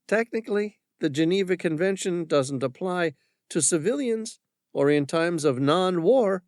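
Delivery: armed woman correcting the Frenchman; smug woman. Acted. Woman retorts with a half grin.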